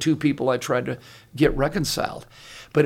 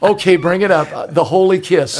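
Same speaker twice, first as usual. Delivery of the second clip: playful excitement; 3 semitones higher, 8 dB louder than usual. Real, not acted. Giving in to the story.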